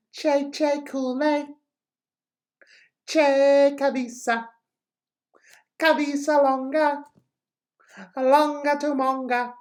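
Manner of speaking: teacher demoing a high happy version of the chant. Shown as a demonstration. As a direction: sing it up high like you're delighted. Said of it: "in a higher voice with a little bit more of a happier expression".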